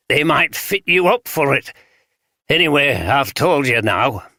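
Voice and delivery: lightly voiced old vagrant in broad Yorkshire; broad Yorkshire accent. Vagrant tells detectives what he saw, light broad Yorkshire. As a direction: tell it plainly in a touch of broad Yorkshire. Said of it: "spoke in the broad Yorkshire accent".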